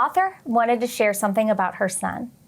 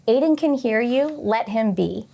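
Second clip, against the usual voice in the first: firm but gentle. Retold or imitated. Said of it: "wanted to tell everybody at the park".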